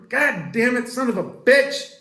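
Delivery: sudden high, loud yell of pain; pained angry curse. Retold or imitated. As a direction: swear like you just hit your thumb. Hit your thumb with a hammer.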